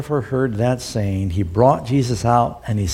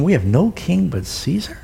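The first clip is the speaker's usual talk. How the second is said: lightly mocking, ending on a rise; a touch of sarcasm as he echoes the priests; understated sneer at the priests' sudden loyalty; mock loyal protest; 5 semitones higher than usual. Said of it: "It's amazing what loyal Romans they are suddenly becoming".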